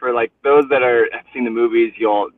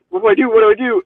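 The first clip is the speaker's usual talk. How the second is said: frantic repeated question, much higher; retold panic; 12 semitones higher, 4 dB louder, much faster than usual. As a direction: blurt it twice like you've lost the ring. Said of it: "freaking out a little bit".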